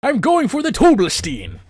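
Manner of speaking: high, loud mock Russian Zarya line; host imitating Zarya for his co-host; Zarya impression. Loud Zarya in Russian accent. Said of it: "Just impersonate Zarya".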